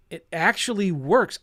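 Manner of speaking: growing excitement. Real, not acted. Investor repeating the realization, rising excitement. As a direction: say it now with conviction.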